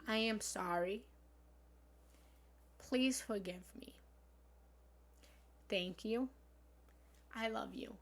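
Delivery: measured, meditative chant; mantra recitation. Shown as a demonstration. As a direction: recite each line with calm pauses. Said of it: "the whole mantra is".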